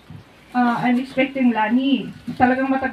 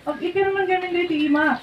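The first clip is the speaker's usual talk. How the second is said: imitated slurred voice; 5 semitones higher than usual. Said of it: "napapansin ko talaga yung voice niya".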